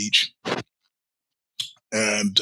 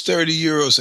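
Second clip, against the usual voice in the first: put-on Chinese accent; 5 semitones higher than usual. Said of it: "her Spanish with a Chinese accent".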